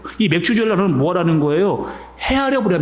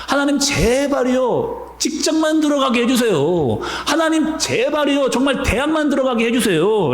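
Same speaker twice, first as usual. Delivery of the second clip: desperate prayer; 4 semitones higher than usual. Retold or imitated. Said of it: "라고 그렇게 막 기도한 때가 있었거든요".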